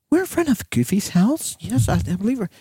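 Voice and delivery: lightly voiced 911 caller woman; a hint of a flustered lady caller; woman's voice. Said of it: "Is she British?".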